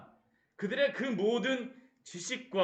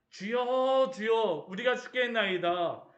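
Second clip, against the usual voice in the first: crying out; 2 semitones higher, slower than usual. Retold or imitated. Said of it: "외치지만".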